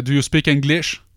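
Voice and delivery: light imitation of an American accent. American man asking the hospital counter for English, light American accent. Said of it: "Il l'a dit avec un accent américain".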